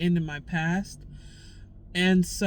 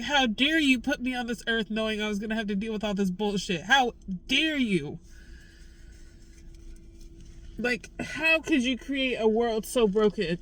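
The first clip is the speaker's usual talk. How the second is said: angry at God; 2 semitones higher than usual. Real, not acted. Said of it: "it just makes me so mad".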